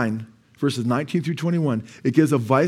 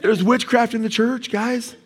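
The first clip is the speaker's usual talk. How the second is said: laughing mock alarm; 9 semitones higher than usual. Mock answer to the reviews.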